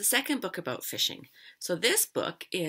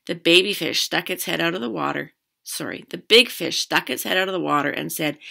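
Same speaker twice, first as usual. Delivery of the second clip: lively read-aloud, louder than chat; story narration; 9 dB louder than usual. A narrator's reading. Teacher reading a fishing story to children, animated narration. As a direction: read a picture book out to children.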